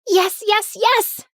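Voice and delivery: high, eager burst of yeses; excited yes. Acted. Daughter eagerly accepts the trip to her aunt, excited. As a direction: jump at the offer. Daughter thrilled to visit cousins.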